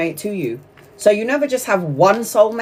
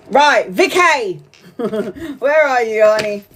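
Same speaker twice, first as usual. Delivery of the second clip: calling out. Real, not acted. Reader calling Vicky up for a reading, playful call-out. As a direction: stretch the name out to summon someone. Calls the next client by name.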